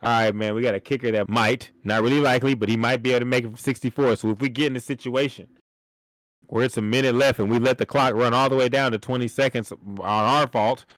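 low, matter-of-fact pitch to his co-host; a hint of a coach laying out a plan; a touch of deadpan game plan; lightly voiced coach. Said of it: "I look at you in the eye and I say".

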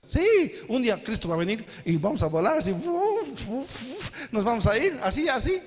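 mock excited about flying away; goofy churchgoer getting carried away; silly rapture pitch. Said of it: "así predicamos".

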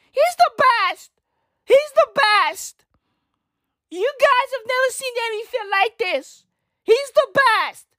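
very high-pitched hyped-up mock screaming; imitating screaming fan. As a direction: scream it like an over-hyped brother in the background. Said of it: "this fucking kid was in the background just screaming".

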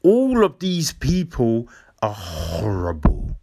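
mock-solemn, hushed and heavy delivery; cringy speechmaker. Mocking someone speechifying at an awards show, hammed-up solemnity. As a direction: overdo the grave, whispery indignation. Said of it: "someone gets up there and they're just like".

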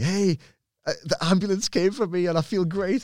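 put-on high, bright excited boy on the phone; cheerful kid. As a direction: beam about feeling great. Cheerful kid calling after ambulance.

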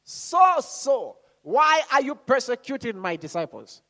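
high, ringing call; voice from heaven. Acted. Preacher voicing the voice Saul heard, high heavenly call. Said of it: "heard a voice saying to him".

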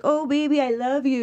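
lightly imitated Russian accent; a hint of a Russian accent, pleading. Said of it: "he kept saying this in this Russian accent".

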